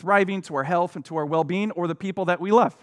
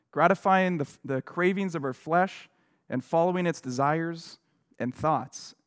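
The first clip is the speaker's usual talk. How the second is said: measured, softer reading of a Bible passage; lightly solemn scripture read; 3 dB quieter than usual. Acted. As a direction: read the verse with quiet gravity. Reads Ephesians passage aloud.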